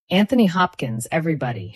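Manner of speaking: a touch of talk-show host announcing. Acted. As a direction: present the guest with authority. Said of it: "voice rich with authority".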